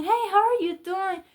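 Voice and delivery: high, sugary mock greeting; mocking sweet voice. Mocking the other woman's texts.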